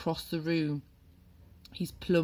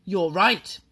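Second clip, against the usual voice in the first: headmistress; 3 semitones higher, 8 dB louder than usual. A narrator's reading. Trunchbull answering the boy.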